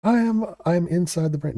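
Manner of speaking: high, loud hammed-up grandmaster; pompous mock genius voice. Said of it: "I'm a grandmaster".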